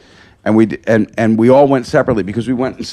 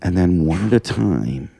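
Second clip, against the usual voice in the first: whispered plan; 6 semitones lower, 8 dB quieter than usual. Retold or imitated. Telling his friends at the play, whispering. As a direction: keep it hushed so nobody notices. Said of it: "I go".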